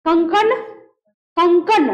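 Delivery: कंकन said firmly, the nasal hard; teacher drilling a word aloud. Shown as a demonstration. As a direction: say कंकन firmly, showing its hardness. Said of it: "जैसे बोलिए कंकन".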